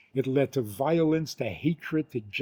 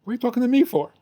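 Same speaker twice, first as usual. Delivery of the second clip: higher, louder mock outrage; "What are you talking to me for?" thrown back higher and louder; mock indignant, higher and louder; 9 semitones higher, 5 dB louder, much faster than usual. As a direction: push the indignation up a notch. Imagined reply, repeated stronger.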